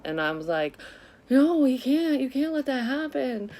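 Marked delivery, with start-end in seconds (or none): 1.3-3.5 loud, high-pitched desperate protest; retold panicked plea. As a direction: plead as if a life depends on it. Retells pleading with mom in panic.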